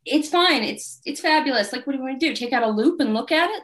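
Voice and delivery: mock brushing off. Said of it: "And I was like".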